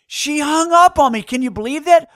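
high, loud outrage; indignant disbelief. Retold or imitated. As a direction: protest in comic disbelief. Outrage at being hung up on.

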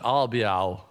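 Abba said as albiao; albiao, ahl-bee-OW; mispronounced Abba. Shown as a demonstration. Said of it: "I often pronounce it".

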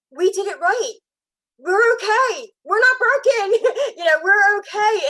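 high, loud, breaking with tears; tearful breaking voice. Real, not acted. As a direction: push through the words as tears take over. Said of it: "emotional and cry and break up right now".

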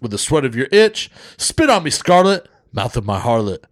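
Def Jam poetry slam. Acted. Co-host reciting a crude poem for listeners, Def Jam style. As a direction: deliver it like a Def Comedy slam act. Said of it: "I'm gonna do it like a fucking, a Def Jam".

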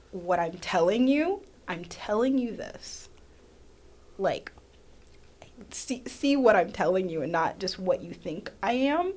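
slow, sincere insistence; slow down and mean it; earnest plea. Retold or imitated. Pleading with friends to really listen, slow. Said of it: "And I'm like".

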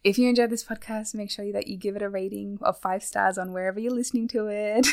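polished podcast outro plug; professional plug. Real, not acted. Asking listeners to rate the podcast, professional plug. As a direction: deliver a tidy call to action for listeners. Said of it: "That was professional".

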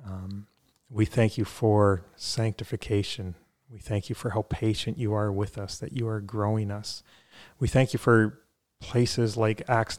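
measured prayer with pauses between phrases; spoken prayer. Real, not acted. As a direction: pray aloud sincerely, phrase by phrase. Leads a closing prayer.

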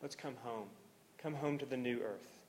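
soft, low, gentle welcome; tender invitation. Retold or imitated. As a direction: call them home gently, voice hushed and low. Voices tender call home to believer.

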